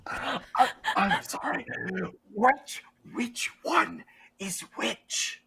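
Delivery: high, halting, whispery character voice; confused game character. Acted. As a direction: ask slowly in a puzzled, airy falsetto.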